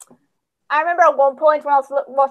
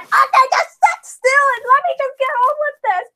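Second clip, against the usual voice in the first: higher, firm dentist voice; stern dentist; 10 semitones higher than usual. Acted. A dentist ordering the patient to sit still, firmly. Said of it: "a dentist sort of thing".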